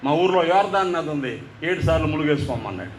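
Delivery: a pastor answering coolly, without budging; unmoved, offhand. Retold or imitated. Pastor coolly dismissing the army commander, unhurried and unmoved. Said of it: "అంగుళం కూడా కదలకుండా అన్నాడు".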